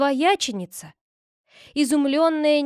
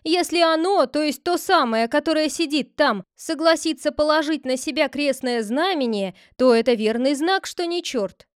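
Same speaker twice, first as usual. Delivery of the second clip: voiced clerk, higher and louder; clerk reasoning aloud; 5 semitones higher, 5 dB louder than usual. The clerk proposes a sign of the cross test. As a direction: lay out the test with urgency.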